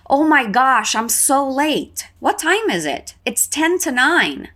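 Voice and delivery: read dialogue. Acted. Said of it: "Eu vou ler esse diálogo".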